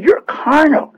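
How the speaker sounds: lightly voiced apostle repeating the charge; Paul's rebuke. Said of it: "He said".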